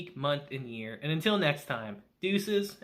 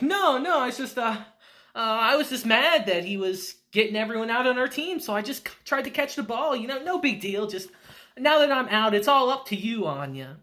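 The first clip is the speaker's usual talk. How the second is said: raised, flustered backpedaling; flustered excuses; 4 semitones higher than usual. Retold or imitated. Damien brushing off his crush to Anya, flustered and higher. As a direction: stammer out excuses like a kid caught caring. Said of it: "You know, he's embarrassed".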